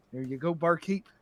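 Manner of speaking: hint of an Irish brogue; lightly put-on Irish accent. Pirate paying the barkeep, light Irish accent. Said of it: "how bad my Irish accent is".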